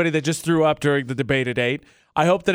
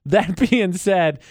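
laughing; 4 dB louder, much slower than usual. Real, not acted. Laughs while changing topic.

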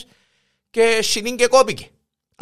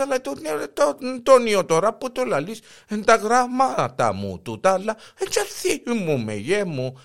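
put-on fumbling old wife; 3 semitones higher than usual. Wife voiced making excuses.

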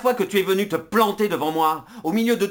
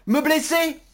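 outraged; 6 semitones higher than usual. Acted. Outraged accusation.

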